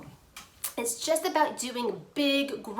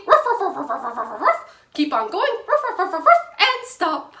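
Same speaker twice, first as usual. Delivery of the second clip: higher, louder playful barks; barking like a dog; 6 semitones higher, 7 dB louder, faster than usual. Shown as a demonstration. Teacher barking while tracing letter, higher and louder. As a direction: woof through the letter shape. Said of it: "bark like a dog".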